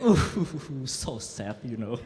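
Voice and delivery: mock sad. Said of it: "And I'd be like".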